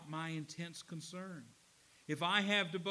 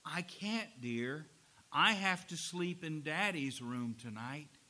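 tender; 2 semitones lower than usual. Retold or imitated. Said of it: "and said tenderly".

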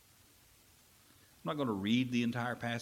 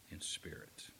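whispered ending; 4 semitones lower, 13 dB quieter than usual. Real, not acted. Preacher's closing emphasis.

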